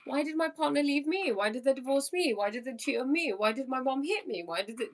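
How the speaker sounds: mock self-pitying inner voice; whiny ego. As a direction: whine like a hurt ego asking why me. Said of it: "The ego's like".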